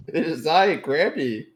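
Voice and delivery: high, loud granny voice; Grammy voice. Acted. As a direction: play a sweet old granny, high and bright. Goblin in wig plays Grammy.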